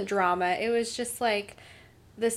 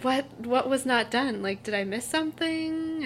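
retold confusion; 4 semitones higher than usual. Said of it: "I'm like".

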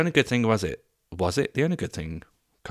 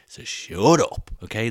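drawn-out, louder "shut up"; hammed-up dismissal; mock telling-off; 2 semitones higher, 6 dB louder, slower than usual. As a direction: playfully shut them down, stretching it out.

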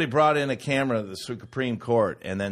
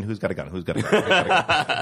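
anxious mutter; 3 semitones lower, faster than usual. Pretend. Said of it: "you'd be like".

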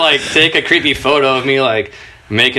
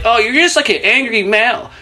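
mock friend; 9 semitones higher than usual. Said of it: "her friend is there like".

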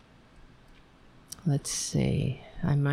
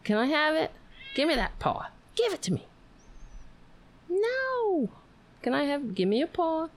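much higher, pleading pet talk; coaxing explanation; 10 semitones higher than usual. Acted. Owner explains it better to the dog, high coaxing voice. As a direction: coax the dog in a high little voice. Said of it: "maybe if I explained it to him better".

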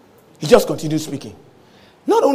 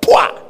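loud, abrupt burst of a falling sack; imitated thud; 5 dB louder than usual. Preacher imitates the demon hitting the floor, sudden thud. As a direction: burst it out like a heavy drop. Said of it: "fell on the floor like a sack".

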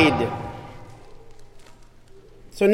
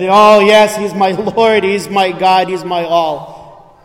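louder, lifted burst of joy; joyful confession; 3 semitones higher, 6 dB louder, slower than usual. Acted. Believer declaring Jesus is their Lord, joyfully loud. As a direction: exclaim it like a delighted yes.

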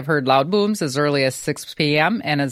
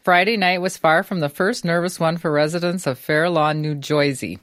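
New Jersey accent. Shown as a demonstration. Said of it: "Okay, go for it".

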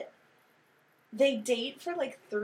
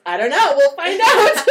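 much higher and louder, laughing; laughing reply; 11 semitones higher, 13 dB louder than usual. Retold or imitated. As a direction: giggle it out helplessly. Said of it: "She goes".

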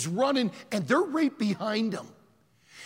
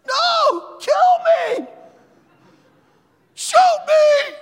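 high, loud defiant yells; yelling out; 12 dB louder, much slower than usual. Retold or imitated. Preacher voicing Alberto daring the gunmen, loud shout. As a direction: dare them to shoot, full shout. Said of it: "he starts yelling out".

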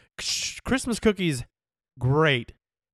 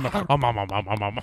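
Pac-Man chomping; 6 semitones lower than usual. Pretend. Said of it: "Like Pac-Man".

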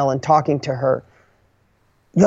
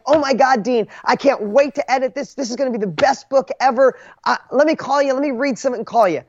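imitating her gushing, higher voice; gushing editor; 6 semitones higher than usual. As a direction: play back her delight at the manuscript, a step higher. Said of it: "she saw my enthusiasm".

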